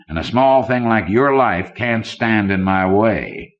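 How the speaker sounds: a hint of a cool, menacing tycoon; villainous banker. Banker Conant coolly threatens the scientist Kidder, lightly voiced menace.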